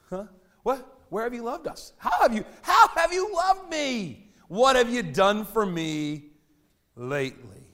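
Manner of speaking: high, slow, loud whining demand; hammed-up entitled complaint; whiny ungrateful retort. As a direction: whine like a spoiled child demanding proof. Mocking Israel's ungrateful retort.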